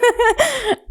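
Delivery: a bright high burst of laughter. Real, not acted. Host laughing, relieved nobody calls her a hypochondriac. Laughs after thankful remark.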